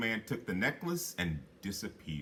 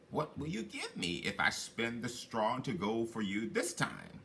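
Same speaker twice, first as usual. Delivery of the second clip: little man. Acted. Little man bargains again.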